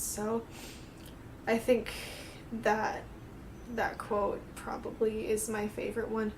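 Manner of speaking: quietly crying while explaining a quote; real tearful. Real, not acted. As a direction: talk slowly through real tears. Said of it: "I'm crying".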